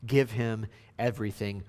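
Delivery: loud, rhythmic acclamation; ringing shout of praise; crying out. Acted. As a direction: proclaim it like a crowd praising its king. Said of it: "And so they all cry out".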